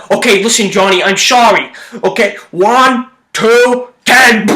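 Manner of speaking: lightly voiced 1930s gangster; a hint of old-movie gangster, slow count; old-timey gangster, gently done; Snakes the gangster. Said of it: "that was me as Snakes".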